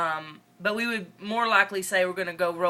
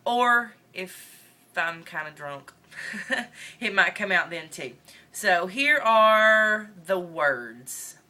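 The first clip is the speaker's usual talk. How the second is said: Northern Mississippi accent. Real, not acted. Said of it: "try really hard for this whole video".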